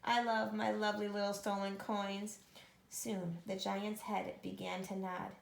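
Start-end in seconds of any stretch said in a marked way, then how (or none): 0.0-2.4 gloating giant voice, a little louder; greedy giant. Acted. Greedy giant gloating over coins, put-on voice. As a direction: croon over the stolen gold.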